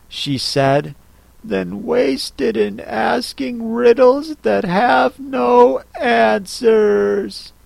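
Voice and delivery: tired of pointless riddles; weary Alice. Acted. Alice, weary, scolds the Hatter for wasting time. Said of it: "Alice sighed wearily".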